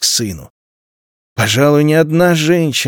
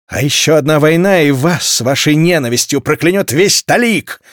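shouted out; 3 semitones higher than usual. Acted. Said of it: "выкрикнул Дик".

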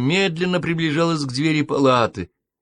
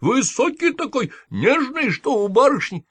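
put-on much higher, tender like a young lady; high girlish voice; 11 semitones higher than usual. A narrator's reading. Nanny caught lying, imitating a girlish voice high up. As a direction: lift it up high and dainty like a girl's voice.

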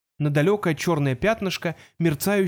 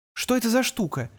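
anxious whisper; 7 semitones higher than usual. A narrator's reading. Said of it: "тревожно прошептала Финчёрч".

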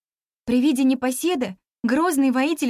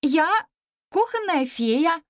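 haughty; 5 semitones higher, slower than usual. A narrator's reading. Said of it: "надменно заявила я".

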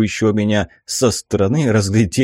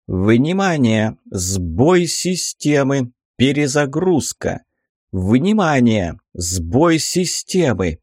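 glitching robot; 2 semitones higher, slower than usual. Acted. Looping system error alert.

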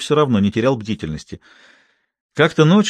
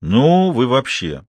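drawn-out, incredulous protest; taken aback and mildly indignant; exasperated disbelief; much slower than usual. Acted. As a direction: throw up your hands in indignation. Narrator throws up hands, exasperated.

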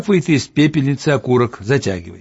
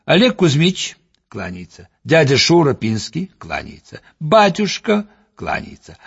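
clowning manner. Acted. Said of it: "в прежней шутовской манере".

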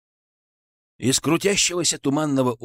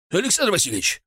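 alarmed call; 7 semitones higher, faster than usual. A narrator's reading. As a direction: shout his name in alarm. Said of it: "встревоженный голос Игната".

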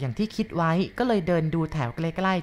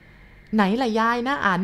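put-on a lightly higher, slow child's voice; eager boy; 5 semitones higher, much slower than usual. Young boy asks grandma where his uncle is, eagerly. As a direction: ask like an eager little boy.

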